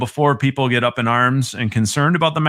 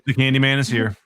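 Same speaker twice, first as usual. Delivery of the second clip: put-on Transylvanian accent. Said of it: "You did a nice count voice".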